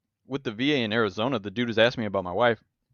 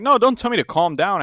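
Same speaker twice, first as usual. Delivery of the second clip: retold outburst; 11 semitones higher, 5 dB louder than usual. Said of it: "And I'm like".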